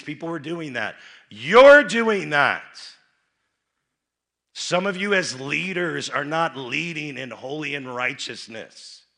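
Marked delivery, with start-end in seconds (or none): 0.0-7.2 shouted accusation. Real, not acted. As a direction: roar it at the congregation. Preacher confronting congregation.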